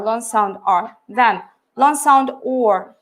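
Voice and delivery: "long sound R" then "long sound or" said slowly, vowels held; drawn-out long sounds. Shown as a demonstration. Teacher modelling long vowel sounds for students. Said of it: "we underline or look".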